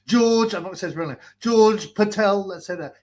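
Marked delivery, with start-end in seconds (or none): 0.1-0.5 slow, higher gloating boast; boasting mock voice. Mocking the rival boasting on the call, high, slow gloat. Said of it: "And he was boasting". 1.4-2.5 slow, higher gloating boast; boasting mock voice. Mocking the rival boasting on the call, high, slow gloat. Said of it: "And he was boasting".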